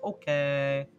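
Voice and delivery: drawn-out put-on little kobold voice; mock-obedient minion; resigned kobold servant. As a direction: stretch each okay as a meek creature agreeing. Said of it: "And it's like".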